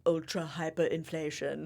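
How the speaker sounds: ultra hyperinflation in a light German accent, oo in ultra. Shown as a demonstration. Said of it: "I can hear in a German accent".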